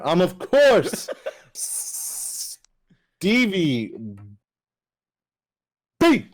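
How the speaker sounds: slow, laughing through it; chuckling while saying it. Real, not acted. Same intro line, now laughing.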